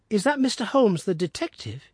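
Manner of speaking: put-on high boyish voice, wary; a lad sizing up a stranger; suspicious boy. A narrator's reading. Son asks father about the visitor, high and wary.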